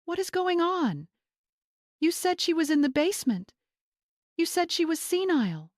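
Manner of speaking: shrill, accusing mother; high, shrill accusing voice from an upset mother; shrill outburst. A narrator's reading. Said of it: "her voice shrill".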